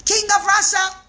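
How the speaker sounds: whisper-free but urgent tattling to the king; tattling schemers. Acted.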